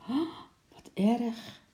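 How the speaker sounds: high, slow, dismayed little voice; shocked whisper. A narrator's reading. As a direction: say it slowly and high, as if taken aback. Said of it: "fluisterde Lotje geschrokken". (geschrokken, hoog stemmetje)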